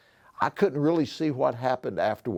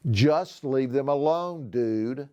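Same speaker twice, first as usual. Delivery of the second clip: steady and unhurried, a touch slower; calm repeat; slower than usual. Acted. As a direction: calmly repeat the warning without rising to it. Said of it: "repeated calmly".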